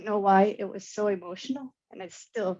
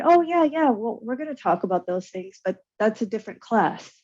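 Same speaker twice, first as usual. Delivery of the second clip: a light, breezy brush-off, pitched up at first; mock dismissive teacher; 3 semitones higher than usual. Speaker mimics the professor dismissing her question, lightly breezy and brushing off.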